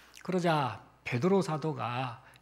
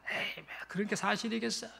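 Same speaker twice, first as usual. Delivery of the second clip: scoffing disbelief; 2 semitones higher, 8 dB quieter than usual. Acted. Doubters hearing the gospel of heaven, scoffing. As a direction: brush it off under the breath. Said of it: "콧방귀를 꼈습니다".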